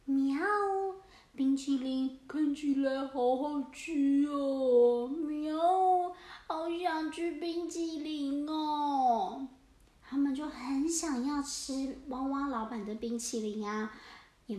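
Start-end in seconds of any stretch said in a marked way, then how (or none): 0.0-9.5 slow, meowing hungry cat. Acted. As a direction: purr it out like a greedy kitten. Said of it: "野猫军团啊，在外面说".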